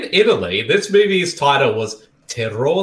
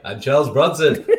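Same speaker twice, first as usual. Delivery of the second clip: mock Italian accent; 2 semitones lower than usual. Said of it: "his Italian accent is like".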